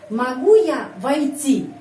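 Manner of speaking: slow model question with stress on "Могу"; question intonation demo. Shown as a demonstration. Teacher models asking to come in, stress on "Могу". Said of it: "Intonasi begini ya".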